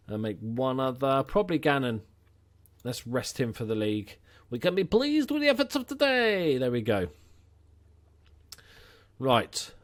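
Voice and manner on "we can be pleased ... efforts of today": calling out. Pretend. Manager calling out to the team.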